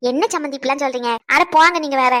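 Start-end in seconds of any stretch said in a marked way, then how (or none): 1.3-2.1 loud, dismissive burst; in-law brushing off the other loudly; exasperated outburst. Acted. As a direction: shove the words away, louder. Quarrel with in-law.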